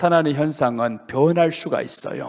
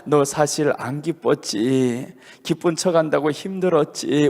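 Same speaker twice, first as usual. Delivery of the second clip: the Lord speaking gently; 2 semitones lower, 3 dB quieter than usual. Retold or imitated. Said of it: "우리 주님이 내 옆에 와서 그래요".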